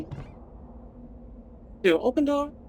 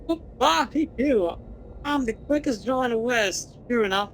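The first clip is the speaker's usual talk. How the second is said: cowboy voice; 3 semitones higher than usual. Acted. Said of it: "Gabby doesn't talk like that".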